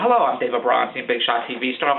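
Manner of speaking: very low, self-important "Big Shot T V star"; pompous self-introduction. Retold or imitated. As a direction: introduce yourself as a big celebrity, lightly hammed. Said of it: "That's how I always introduce myself".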